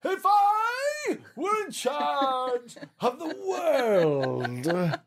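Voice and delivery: high, slow, booming royal decree; hammed-up majestic shout; majestic proclamation. Shown as a demonstration. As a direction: proclaim it grandly, stretching every phrase. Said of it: "do it in a very majestic manner".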